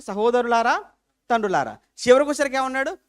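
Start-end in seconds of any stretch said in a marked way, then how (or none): 0.0-1.8 courteous greeting to the elders; gentle address. Shown as a demonstration. Preacher shows Stephen's polite opening to the council, courteous. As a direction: open kindly like greeting brothers and fathers. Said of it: "ప్రారంభ సంబోధన అనేది ప్రారంభం ఎలా ఉంది?".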